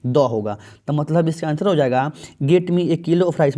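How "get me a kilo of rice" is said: very slow, word by word; slow dictation of the exam sentence; slow read-aloud. Shown as a demonstration. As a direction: spell the sentence out slowly for students. Teacher reading exam sentence slowly.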